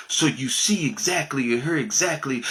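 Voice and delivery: measured, careful words for non-native listeners; slowed down. Shown as a demonstration. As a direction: spell it out slowly for English learners. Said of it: "slow it down a little bit".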